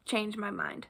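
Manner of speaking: playful whispered aside. Real, not acted. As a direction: whisper it like a secret. Playful stubborn claim about author.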